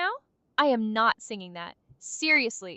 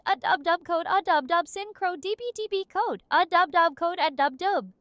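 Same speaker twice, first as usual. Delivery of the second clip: glitchy robot voice. Pretend. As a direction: sing like a malfunctioning AI. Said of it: "In an overly energetic, slightly glitchy voice".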